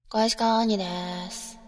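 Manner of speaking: half-open mouth lazy gyaru. Acted. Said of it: "口を閉じ切らない感じで、だるそうにやると".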